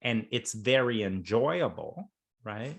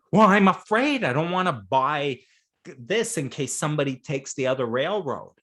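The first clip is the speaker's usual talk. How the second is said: timid player; 2 semitones higher, 3 dB louder than usual. Retold or imitated.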